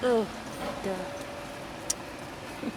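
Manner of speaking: muffled behind a mask; through a face mask. Real, not acted. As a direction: speak through a cloth mask. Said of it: "Excuse the mask".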